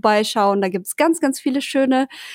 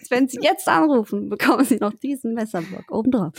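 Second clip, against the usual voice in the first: infomercial. Pretend. Teleshopping pitch parody.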